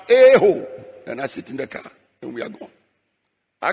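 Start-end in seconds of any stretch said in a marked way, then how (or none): 0.1-0.7 a loud, high whoop of joy; joyful shout. Retold or imitated. Preacher reenacting his joyful car park shout. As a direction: let out a happy yell like dancing in a car park. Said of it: "I shout".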